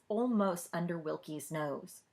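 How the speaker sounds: ordinary delivery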